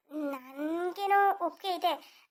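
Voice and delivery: slow, tearful words; crying. Acted. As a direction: agree while choking up. Mother tearful over son. (ಅಳುತ್ತಾ ಒಪ್ಪಿಗೆ)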